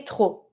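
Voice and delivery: TROP ending on an "oh" sound, no P; silent P. Shown as a demonstration. Teacher giving the French for too much, "trop" with silent P. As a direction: say "trop" with the P left off. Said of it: "you don't pronounce the P".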